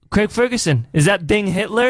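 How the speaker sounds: customs officer. Retold or imitated. Customs officer at London airport, excitedly recognizing him. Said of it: "And the guy goes".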